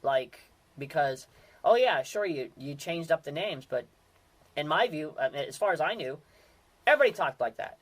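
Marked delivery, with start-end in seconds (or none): 1.6-2.2 high, loud sarcastic scoff; sarcastic oh yeah sure. Retold or imitated. A sarcastic scoff at a radio joke, sarcastic. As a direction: scoff as if the joke were obvious.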